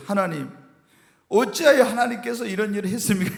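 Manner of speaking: pleading question through a chuckle; laughing prayer. Retold or imitated. Pastor retelling inner protest to God, chuckling. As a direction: ask God half laughing. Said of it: "제가 막 속으로 그런 거".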